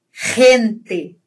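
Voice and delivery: "gente" starting with a strong rasped H from the throat; throaty Spanish G. Shown as a demonstration. Teacher demonstrates G before E, throaty "gente". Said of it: "mais forte aqui".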